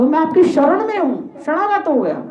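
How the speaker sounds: imploring, as a suppliant in a tale; pleading. Acted. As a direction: beg a king for shelter. Kalyug begs the king for shelter.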